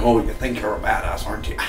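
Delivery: imitating a TV character talking through his teeth; lightly put-on voice through the teeth; Dodd. Reviewer mimicking a favorite Fargo character, talking through teeth. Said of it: "he's doing his teeth like this all the time".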